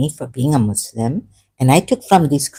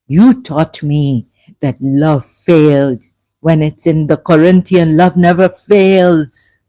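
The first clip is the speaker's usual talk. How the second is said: emotional; 7 dB louder, slower than usual. Real, not acted. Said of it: "this gets me all triggered up".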